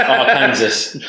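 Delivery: Arkansas said "ar-KAN-zus"; Arkansas rhymed with Kansas. Shown as a demonstration. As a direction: say Arkansas as written, stressed on KAN. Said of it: "illegal to call it that".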